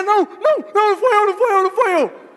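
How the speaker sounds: loud, high, repeated protest; blurting innocence at the top of the voice; panicked denial. Acted. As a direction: deny it in a hammed-up panic. Acting out a startled denial.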